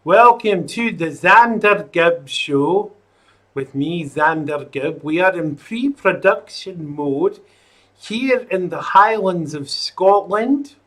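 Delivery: put-on a light, slowed Scottish accent. Host welcoming viewers to his show in a mock Scottish accent. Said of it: "Maybe I should do the whole show in a Scottish accent".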